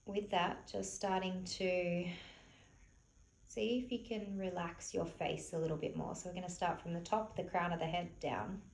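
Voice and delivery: soft, unhurried meditation-teacher voice; softly spoken, spacious relaxation cues; guided relaxation. Real, not acted. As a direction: gently guide them to relax, leaving long pauses. Leads a gentle relaxation.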